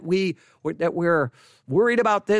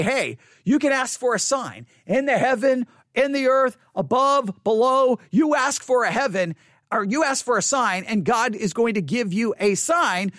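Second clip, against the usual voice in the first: emphatic offer; 4 semitones higher than usual. Acted. Voicing Isaiah's offer to Ahaz.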